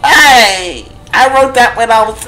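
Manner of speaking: yelling. Real, not acted. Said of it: "Why are you yelling all the time?".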